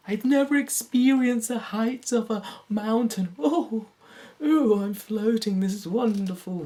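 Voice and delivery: high, airy dream voice; dreamy wonder. Pretend. Dreamer admiring the view from a mountain, high and airy. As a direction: marvel like a child on a mountaintop.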